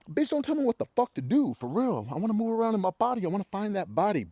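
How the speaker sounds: high sassy rant; high mocking voice. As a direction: act out the yoga fan. Mocking yoga lover.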